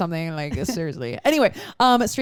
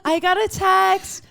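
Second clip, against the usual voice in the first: high, slow cutesy call; light and cute; 11 semitones higher, slower than usual. Pretend. Co-host as a reality contestant, light and cute. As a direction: sing it out high and dainty. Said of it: "trying to be really light and cute".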